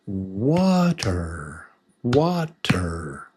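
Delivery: Water split into wah and ter; two separate beats. Shown as a demonstration. Teacher counting two syllables, Water split apart.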